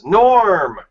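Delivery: long, high holler of a name; crowd greeting yell. Acted. Greeting Stu like a bar regular walking in, yelled. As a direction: holler it out, drawn out, rising then falling. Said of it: "everybody yells".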